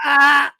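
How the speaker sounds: helpless "ah" of pain; pained moan. Retold or imitated. Husband lying on the ice, moaning. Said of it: "You heard me moaning".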